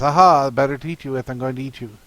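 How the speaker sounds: loud "Aha", then a sly drop; a lightly voiced big bad wolf springing the trap; mock wolf pounce. Wolf springs on Red Riding Hood, hammed-up gotcha. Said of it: "the wolf says".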